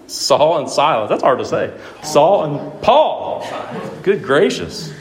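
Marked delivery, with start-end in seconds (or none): 2.0-4.9 chuckling through the mixed-up names; laughing at a slip. Real, not acted. Preacher tripping over names, laughing at himself. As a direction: laugh it off, slowly, at your own flub. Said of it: "I can't even talk".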